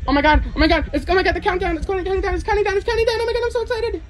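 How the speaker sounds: rising excitement as the countdown starts; real building excitement; excited. Real, not acted.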